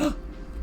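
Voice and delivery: short breathy mock gasp. Player imitates someone looking up symptoms, mock gasp. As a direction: gasp as if suddenly realizing.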